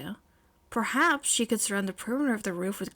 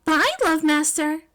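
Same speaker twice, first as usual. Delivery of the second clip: higher, louder, slow goodbye; cheerful farewell; 7 semitones higher, 6 dB louder than usual. Acted. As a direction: wave him off happily. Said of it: "May told him with a wave".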